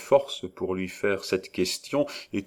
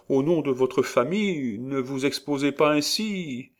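pleading wife; 7 semitones higher than usual. A narrator's reading.

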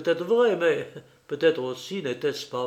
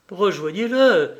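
curt; 5 semitones higher, 7 dB louder than usual. A narrator's reading. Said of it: "dit-elle d'une voix brève".

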